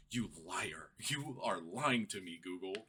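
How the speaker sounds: mock-outraged, drawn-out accusation; infuriated accusation. User calling out Google's AI for lying, infuriated. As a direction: accuse it slowly, word by word. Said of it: "This is infuriating".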